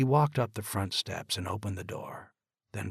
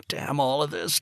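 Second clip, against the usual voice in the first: a touch louder, rising anger; angry curse; 7 semitones higher, 4 dB louder than usual. Acted. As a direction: start the curse bitter, holding back. Father raging after the call.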